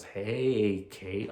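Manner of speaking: lightly creepy, drawn-out greeting; a hint of a creepy stalker calling her name. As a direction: killer greeting Kate, only mildly creepy. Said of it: "all creepy".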